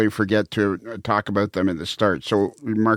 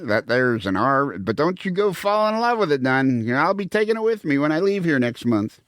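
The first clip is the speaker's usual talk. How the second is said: character voice; 5 semitones higher than usual. Acted. Movie quote in a character voice.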